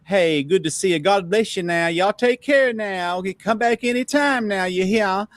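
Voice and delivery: hammed-up Southern charm, pitched high; mock Southern sweet talk. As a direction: gush like a sugary Georgia hostess. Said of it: "everything was sugar, baby, darling".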